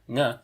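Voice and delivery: "ng" said alone as a velar nasal. Shown as a demonstration. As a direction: sound out "ng" from the back of the tongue. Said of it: "the velar nasal phoneme".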